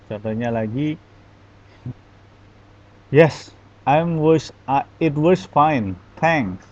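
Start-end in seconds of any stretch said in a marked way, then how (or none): 3.1-6.7 slow, grudging reply, pushed out louder; forced, reluctant. Shown as a demonstration. Teacher demonstrates another intonation to students, forced and reluctant. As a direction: answer as if you are forced to. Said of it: "Sepertinya terpaksa gitu".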